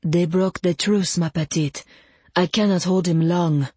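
put-on lightly French-accented, measured warning; touch of a French accent, urgent but controlled; French-accented vampire. Jean-Claude warns her he is losing hold, light French accent.

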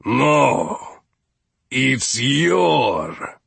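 understated patient correction in a character voice; friendly, patient correction. A narrator's reading. Steward corrects his guest, friendly and patient. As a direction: gently put the visitor right. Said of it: "the voice remained friendly and patient".

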